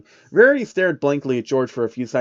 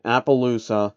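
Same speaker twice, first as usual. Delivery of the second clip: robotic teller. Acted. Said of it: "devoid of any emotion and to a degree robotic".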